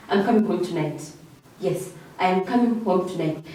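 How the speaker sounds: a settled statement, pitch falling to "tonight"; falling intonation. Shown as a demonstration. Teacher giving an example of a final statement, falling intonation. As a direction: let "tonight" drop with finality. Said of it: "will fall under falling intonation".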